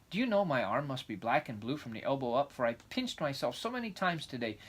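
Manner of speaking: put-on lively, eager young girl; excited girl voice. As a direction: chatter on like a dreamy child. Anne's dreamy excitement.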